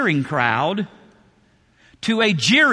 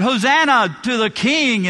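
mock crowd cheer; 5 semitones higher than usual. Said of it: "they were crying out".

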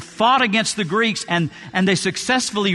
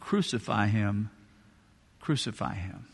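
low, much softer, menacing murmur; hushed crucify cry; 9 semitones lower, 11 dB quieter than usual. Retold or imitated. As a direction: drop to a dark hush.

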